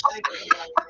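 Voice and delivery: a sudden high, airy burst of laughter; real laugh caught off guard; high breathy laugh. Real, not acted. GM laughs at the bacon joke.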